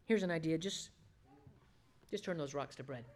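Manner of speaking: soft, offhand coaxing; understated, sly persuasion; tempter's casual suggestion. Acted. Preacher voices devil's offhand temptation.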